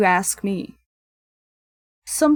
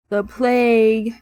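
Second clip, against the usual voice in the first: drawn out, louder mock alarm; mock dramatic exclamation; 5 dB louder, slower than usual. Player echoes the villager's dread word, mock dramatic exclamation. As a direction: stretch it out with hammed-up drama.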